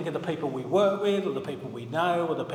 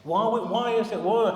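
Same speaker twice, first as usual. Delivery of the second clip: impatient; 3 semitones higher than usual. Retold or imitated. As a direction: pile up the questions, losing patience. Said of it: "we get quite impatient with each other".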